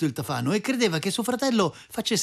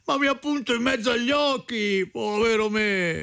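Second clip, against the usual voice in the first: whiny lament; 5 semitones higher than usual. A narrator's reading. Stung brother rubbing his forehead, wailing his complaint. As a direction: moan with hammed-up self-pity. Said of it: "suo fratello ancora si lamentava".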